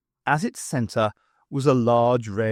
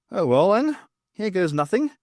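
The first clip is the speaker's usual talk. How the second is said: bracing herself; 6 semitones higher than usual. A narrator's reading. Bernice bracing to act.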